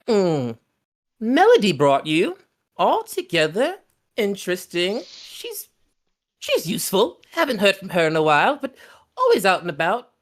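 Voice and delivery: high, sly crone voice; hint slyly like an old witch; knowing old hag. Acted. Hag telling the party about Melody, high and sly. Hag after sipping tea.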